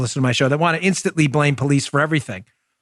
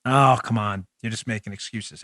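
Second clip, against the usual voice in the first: mock critic; 6 semitones lower, 6 dB quieter than usual. Imagined critic heckling the host.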